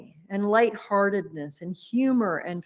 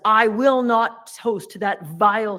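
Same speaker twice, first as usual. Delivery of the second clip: indignant wife; 2 semitones higher, 6 dB louder than usual. Retold or imitated. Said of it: "his wife just about hits the bloody ceiling".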